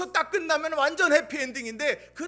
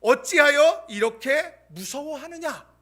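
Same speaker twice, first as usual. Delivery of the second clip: slow, deliberate, stressing 어찌하여; stern rebuke; 4 dB louder, slower than usual. Acted. Pastor quoting Jesus's rebuke, slow and stern. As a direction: lean hard on 어찌하여 as a reproach. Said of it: "그 책망은 뭡니까?".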